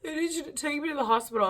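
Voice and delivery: high, loud, drawn-out wail; hammed-up tearful plea; mock crying. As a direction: wail to mom like a hurt kid. Acting out her injured younger self.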